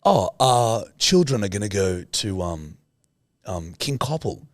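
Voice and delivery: lightly put-on posh Australian; hesitant, refined posh Australian accent. Co-host illustrates class differences, light posh Australian accent. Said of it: "posh Australians who are like".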